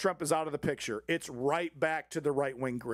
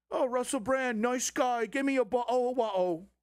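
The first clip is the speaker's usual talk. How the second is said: raised, gushing mock Tucker voice; a higher, breathless caricature of Tucker; mock fawning Tucker; 7 semitones higher than usual. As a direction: ham up a fawning host. Mocking Tucker fawning over Brand.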